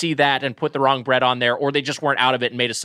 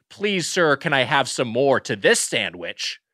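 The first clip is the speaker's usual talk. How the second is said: Oliver Twist plea. Retold or imitated. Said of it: "it was like Oliver Twist".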